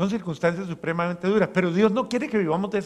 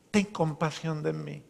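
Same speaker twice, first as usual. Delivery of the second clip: heartfelt plea; 5 dB quieter than usual. Acted. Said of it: "clamarle con el alma".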